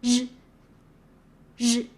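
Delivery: J as a sustained ZH buzz, said separately; French J. Shown as a demonstration. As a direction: model J like the middle of measure or Asia. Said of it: "Remember, it's".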